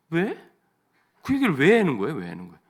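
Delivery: loud, irritated demand from a husband; annoyed husband. Retold or imitated. A husband is irritated by his wife's chatter and loudly demands why. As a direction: bark it out like a husband fed up with the chatter.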